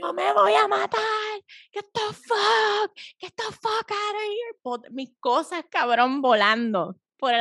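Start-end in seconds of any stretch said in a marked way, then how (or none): 0.0-1.0 high imitated wail; mock suicidal threat. Telling a friend what the armed date said, high mock wail. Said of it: "Sacó una pistola". 1.7-4.6 high, slow mock yell; imitating a hysterical yell. Date throwing her out of the apartment, high mock yell. Acted angry date yelling.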